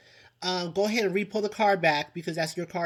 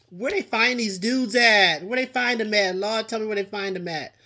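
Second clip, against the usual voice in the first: exasperated disbelief; 4 semitones higher, 5 dB louder than usual. Real, not acted. Exasperated rhetorical question.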